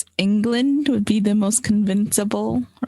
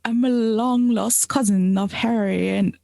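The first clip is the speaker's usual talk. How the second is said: put-on English accent. Improvised scam pitch as Harry's cousin, mock English accent. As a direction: play-act a scammer with an English accent. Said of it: "Okay, you're from England".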